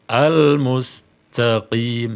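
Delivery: "Al-mustaqim" slowly, with a breathy hissed q; qaf with a hiss. Shown as a demonstration. Teacher shows the wrong hissed qaf in "Al-mustaqim". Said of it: "Bagaimana sifat hamas?".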